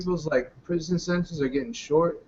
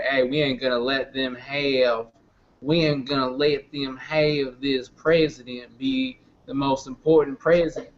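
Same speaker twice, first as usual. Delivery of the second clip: put-on Southern accent; 2 semitones lower, slower than usual. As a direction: lay on a light Southern accent. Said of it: "your Southern accent right there".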